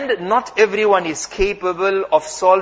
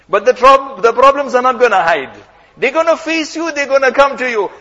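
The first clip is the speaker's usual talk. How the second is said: forceful preaching shout; 3 semitones higher, 4 dB louder than usual. Acted. Preacher's rising warning about problems.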